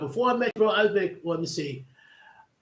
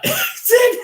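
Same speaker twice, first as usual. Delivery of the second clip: slow, laughing through the line; laughing at own mishap; 8 dB louder than usual. Real, not acted. Laughing at the memory.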